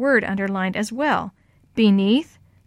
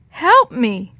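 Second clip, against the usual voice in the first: mild distressed call from far off; call for help; 3 semitones higher, 7 dB louder than usual. A narrator's reading. Girl calls to her friends from far away, calling out. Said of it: "it sounded far away".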